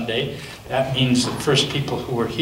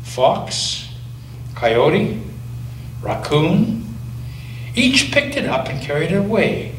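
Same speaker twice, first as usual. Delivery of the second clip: gentle storybook reading with long pauses; reading to a child; 2 semitones higher than usual. Acted. Grandparent reads picture book aloud.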